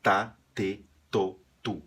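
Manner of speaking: plain clear "Tá, te, to, tu"; Spanish ta te to tu. Shown as a demonstration. Teacher showing syllables that sound the same. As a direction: drill each syllable cleanly. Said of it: "porque é igual".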